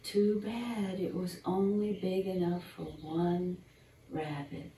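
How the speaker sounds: put-on gentle storybook narration for children; bedtime story reading. Reading a squirrel bedtime story to young listeners, storyteller voice. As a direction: read it like a picture book at bedtime.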